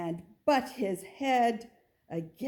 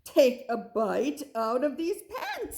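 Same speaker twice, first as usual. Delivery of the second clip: father goat coaxing; 4 semitones higher, 4 dB louder than usual. Acted. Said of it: "said Father Goat".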